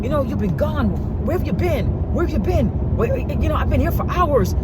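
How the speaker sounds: put-on high, whiny take on the boyfriend; lightly voiced whining man; mock whiny boyfriend. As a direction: play him whining and defensive. Voicing him defensive.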